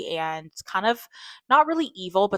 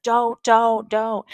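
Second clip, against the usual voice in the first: higher, louder frantic don'ts; mock panicked pleading; 6 semitones higher, 9 dB louder, much slower than usual. Pigs going crazy, panicked men pleading with the witch, mock frantic. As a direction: beg them to stop in a lightly acted panic.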